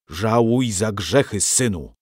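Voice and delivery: a mildly stern cut-in; understated priestly sternness; stern rebuke. Acted. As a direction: scold the sinner, a touch severe. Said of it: "przerwał mu ojciec Krystyn surowo".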